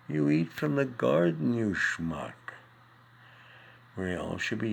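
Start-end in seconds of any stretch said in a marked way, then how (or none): 0.1-2.3 mock scolding. Comic punchline scolding audience.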